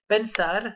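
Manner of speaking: pensar, stressed on the final A; accent tonique sur le A. Shown as a demonstration. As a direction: say pensar with weight on its last syllable. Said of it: "L'accent tonique est sur le A". (pensar, accent tonique sur le A final)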